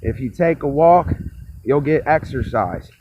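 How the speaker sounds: low, soft, understated everyday talk; barely projected, low private murmur; real tone of voice. Shown as a demonstration. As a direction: drop the projection, speak low and quiet. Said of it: "I really talk like this".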